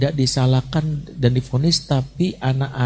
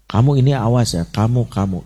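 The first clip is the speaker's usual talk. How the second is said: threatening scold. Retold or imitated.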